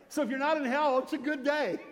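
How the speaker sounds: preacher hammering the joke home; emphatic preaching. Real, not acted. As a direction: drive the point home loudly. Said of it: "preacher punches the point".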